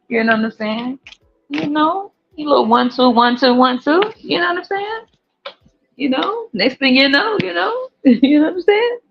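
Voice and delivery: high, lilting mock Pennsylvania accent; sing-song Pennsylvania twang, teasing. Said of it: "put the little Pennsylvania accent on".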